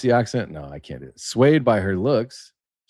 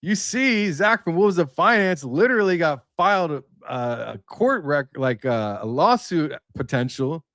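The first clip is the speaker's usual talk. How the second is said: higher, animated ribbing voice of a friend; mocking friend; 9 semitones higher than usual. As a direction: tease him like a buddy laughing at you. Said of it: "And he's like".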